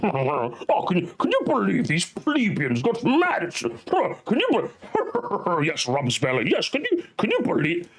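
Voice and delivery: lightly voiced snooty aristocrat, a touch of sneer; mock the smug upper class gently; a hint of a posh sneering nerd; smug aristocrat mockery. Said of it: "sitting around here laughing, going".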